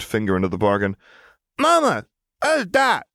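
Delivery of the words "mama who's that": put-on very high, slow toddler voice; curious toddler. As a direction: ask it like a curious little child. Toddler asks about stranger.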